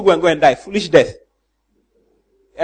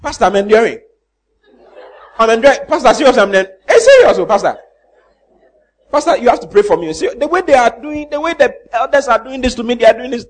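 mock complaining member; 5 semitones higher, 3 dB louder than usual. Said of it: "I ask you".

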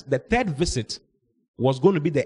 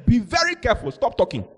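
stern warning. Retold or imitated. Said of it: "I told her".

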